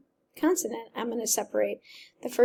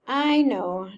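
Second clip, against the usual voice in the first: teeth chattering; 2 semitones higher, 5 dB louder than usual. Acted. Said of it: "through chattering teeth".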